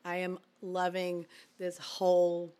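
husky, worn-out voice still raspy from the flu; raspy voice after flu. Real, not acted. Wife on their podcast, speaking in her raspy post-flu voice. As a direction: let the leftover flu rasp show. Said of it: "I want my rasp to stay".

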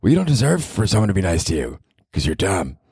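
put-on high, sarcastic girlfriend voice; mock him from way up high; fake mean girlfriend. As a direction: girlfriend mocking his comedy podcast, high and sneering. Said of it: "a fake mean girlfriend voice".

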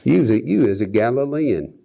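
playful attempt at a Galilean accent; mock Galilean accent. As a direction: imitate a Galilean with a rustic-grammar accent. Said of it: "they had accents".

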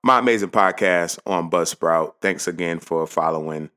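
loud, energetic welcome back; a host welcoming listeners back from the break, energetic; upbeat host return. Acted. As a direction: bounce back in excited.

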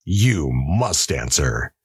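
slow, firm warden's order; sharp command. Acted. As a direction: press him hard, sharply. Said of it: "said the warden sharply".

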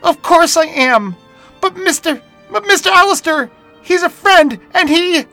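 put-on very high, loud desperate girl yell; yelling back. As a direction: shout back through tears to defend her friend. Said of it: "she yelled back".

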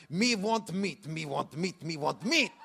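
a hint of mum's halting broken English; broken English drill. Mum repeating her rehearsed English phrase, lightly mimicked. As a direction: rattle off the practiced phrase lightly. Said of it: "she got it down pat".

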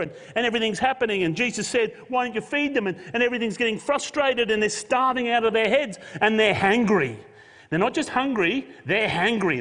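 fast, loud, high-pitched preaching build; building intensity. Real, not acted. Preacher to congregation, mounting to a loud climax.

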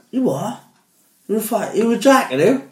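a mocking "you what?" at the jack; mock disbelief. Builders on the site mocking a Swansea fan, high and incredulous. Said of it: "And they went".

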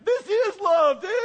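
high, loud punchline; emphatic retort. Retold or imitated. Pastor answering the dazed son, high loud emphatic reply. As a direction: land it hard and bright.

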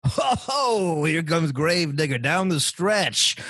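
high, slow booming announcer call; monster truck announcer. Shown as a demonstration. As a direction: hype the truck like an arena announcer. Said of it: "this is an audition tape".

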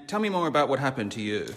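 hint of a softly prompting counsellor; mock therapist. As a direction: imitate a sympathetic counsellor drawing out a client. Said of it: "hire someone like this who is also wounded".

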